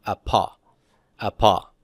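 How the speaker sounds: apa said twice, stress on the first a; apa with the accent. Shown as a demonstration. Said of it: "the accent will be over here".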